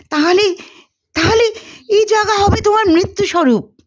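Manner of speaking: put-on high, quick girlish Juliet. Narrator reads Juliet to Romeo, high and hurried. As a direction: play a young Juliet, high and urgent. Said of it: "Juliet হিসেবে বক্তা".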